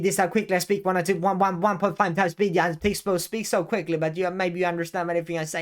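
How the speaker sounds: hurried one-and-a-half-speed patter; mock fast talk. Shown as a demonstration. Mocking viewers who talk at sped-up speed, fast patter. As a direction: gabble like a sped-up video. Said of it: "you're speaking one point five speed".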